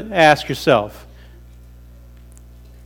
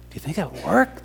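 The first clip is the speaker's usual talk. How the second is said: doubtful turtle; 12 dB quieter than usual. Acted. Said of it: "said the turtle".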